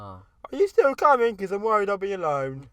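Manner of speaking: mock needy plea. Pleading to friend, high.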